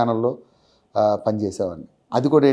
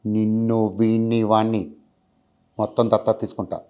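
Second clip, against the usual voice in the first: Mahesh Babu impression; 2 semitones lower, 3 dB louder than usual. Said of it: "శ్రీమంతుడు".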